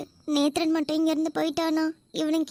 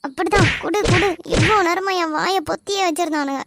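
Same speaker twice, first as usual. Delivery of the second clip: loud indignant egging-on; 5 dB louder than usual. Acted. Freed captive cheers on beating.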